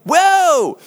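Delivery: high, loud mock whoop of victory; gloating cheer. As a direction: crow over the other side, hammed up. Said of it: "the Greeks are probably going".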